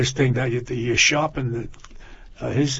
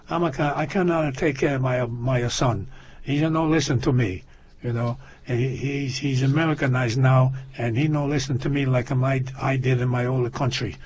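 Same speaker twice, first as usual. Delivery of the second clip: lightly voiced foreign-accented father; a hint of a broken-English foreign accent. Father complaining to the psychiatrist about his son, in a light foreign accent. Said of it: "He got an accent".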